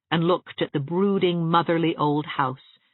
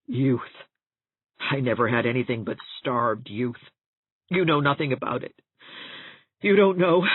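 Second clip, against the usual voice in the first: gasping, tearful outburst. Acted. Catherine to Anne, bitter and tearful. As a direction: let the hurt spill over in gasps.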